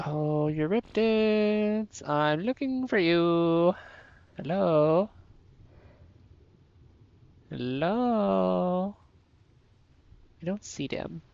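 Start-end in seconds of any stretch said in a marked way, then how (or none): 0.1-3.8 stretched-out teasing call, slow; playful sing-song call. Real, not acted. Searching the ocean floor for the small creatures, playful sing-song call. 4.4-9.0 drawn-out questioning call. Real, not acted. Scouring the ocean bottom for the creatures, drawn-out call.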